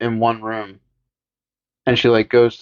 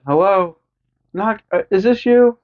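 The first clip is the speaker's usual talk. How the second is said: much higher, puzzled; mock Lori; 9 semitones higher than usual. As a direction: ask it like a ditzy girl. Voicing Lori on phone.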